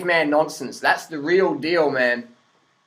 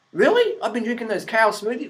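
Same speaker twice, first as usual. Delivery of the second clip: imitated surprise; 4 semitones higher than usual. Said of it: "Joe Rogan's like".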